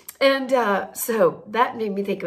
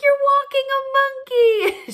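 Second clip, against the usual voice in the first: excited calling out; 13 semitones higher, 4 dB louder than usual. Retold or imitated. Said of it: "screaming for a block".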